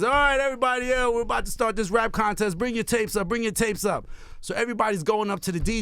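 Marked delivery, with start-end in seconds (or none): 0.0-4.1 DJ on the mic. Retold or imitated. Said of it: "the D J is like this".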